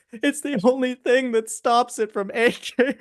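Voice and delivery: a lightly played scream of pain; pained man. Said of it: "he screams in pain and says".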